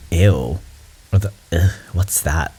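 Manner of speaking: mock disgusted recoil at a word; judgmental. Mimicking people who react to an unfamiliar label, judgmental. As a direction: imitate someone judging what they don't know. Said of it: "so judgmental".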